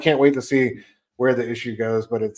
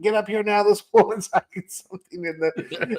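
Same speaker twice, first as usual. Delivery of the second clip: mock panicked yell; 9 semitones higher than usual. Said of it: "She yells to her husband".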